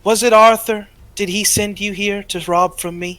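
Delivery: loud, high-pitched accusing call; magically amplified voice. Acted. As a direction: project an interrogation to someone inside. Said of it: "magically enhanced voice from outside".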